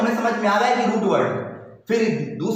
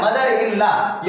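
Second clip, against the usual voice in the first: mother in law said slowly for the class; slow teacher repetition; slow repeat; much slower than usual. Shown as a demonstration. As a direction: drag it out so pupils follow. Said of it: "क्या बोल रहा है?".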